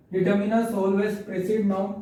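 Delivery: very slow, each word spaced out; slow dictation. Shown as a demonstration. Teacher reading a grammar rule to the class, slow dictation. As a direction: read it out so students can copy it down. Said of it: "teacher reads rule slowly".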